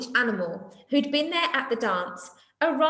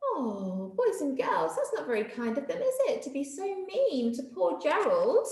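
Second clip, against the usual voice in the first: gentle aside; 4 semitones higher than usual. Real, not acted. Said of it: "teacher asks children, softer".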